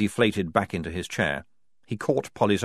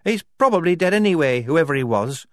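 high, sighing resignation; sighed; 10 semitones higher, 7 dB louder than usual. A narrator's reading. Shufti speaking of the baby's father, sighed. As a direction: sigh it out, dropping in pitch. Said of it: "sighed Shufti".

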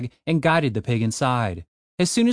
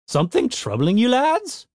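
grumpy gnome professor; 10 semitones higher than usual. Acted.

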